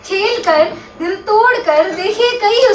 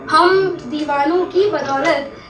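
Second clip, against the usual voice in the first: measured ghazal recital, line by line; mushaira-style verse reading; poetry recitation. Acted. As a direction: recite the couplet with lingering line endings.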